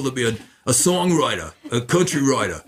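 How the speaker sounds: lightly imitated New York accent, dropped r endings. Guest imitates his co-writer's New York accent. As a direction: do a playful New Yorker saying writer. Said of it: "he talked like this".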